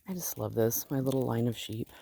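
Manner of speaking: breathless while walking uphill; out of breath. Real, not acted. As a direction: speak winded between breaths. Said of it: "'cause I'm out of breath".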